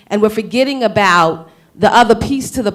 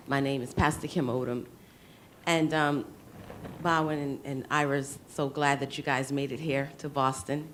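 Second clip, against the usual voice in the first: sick voice; 5 semitones lower, 13 dB quieter than usual. Real, not acted. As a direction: voice rough from a cold. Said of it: "Excuse my voice, I have a little bit of a cold".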